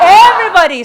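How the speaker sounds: high, loud rally call. Real, not acted. Leader calls everyone to join the chant. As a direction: summon the whole room.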